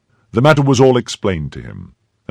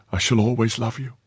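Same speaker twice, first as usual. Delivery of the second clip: put-on higher, tender young woman's voice; devoted maid; 4 semitones higher, 3 dB quieter than usual. A narrator's reading. Maid to departing chevalier, higher devoted voice. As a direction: vow it lightly in a higher voice. Maid vows love in story.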